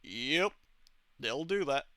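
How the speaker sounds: understated, unbothered reply; lightly voiced laconic dad; reserved quiet man. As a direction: answer with a hint of unruffled reserve. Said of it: "reserved, quiet man ever".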